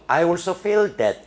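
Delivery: slow, high read of I also feel that; slow reading aloud. Shown as a demonstration. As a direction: read the phrase out word by word. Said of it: "잘 봐야 될 게요".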